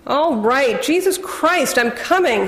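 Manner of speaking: irritated call toward the door, pitch jumping up; hollering from bed, fed up; bellowed. Acted. Husband bellowing at the knock, annoyed bellow. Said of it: "he bellowed".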